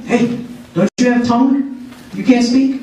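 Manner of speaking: high-pitched mock yell; retold yelling. Old devotee yelling at the silent young man, mock scolding. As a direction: imitate an impatient scolding, voice pitched right up. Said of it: "he starts yelling at him".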